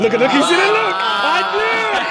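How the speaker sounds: loud, high gleeful gotcha; excited outburst. Real, not acted. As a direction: crow like you caught them out. Host teasing, excited outburst.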